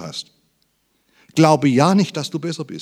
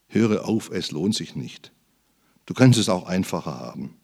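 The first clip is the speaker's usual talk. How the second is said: Satan's voice; 5 semitones lower than usual. Retold or imitated. Preacher imitating the voice of Satan, low and soothing. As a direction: lull the listener into giving up. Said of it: "diese Stimme Satans nicht schon gehört".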